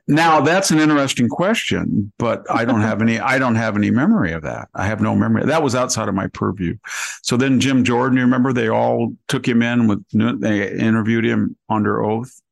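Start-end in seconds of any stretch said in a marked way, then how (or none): 0.1-6.8 a lightly voiced, evasive Comey in testimony; mocking Comey. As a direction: play him as a dodging witness who remembers nothing. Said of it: "remember what he said?".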